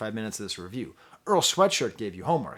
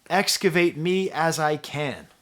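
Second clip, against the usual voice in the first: louder, slow and emphatic, still buzzing; excited quote; 4 semitones higher, 6 dB louder, slower than usual. Real, not acted. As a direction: declaim the lyric with awe. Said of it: "freak out over that line".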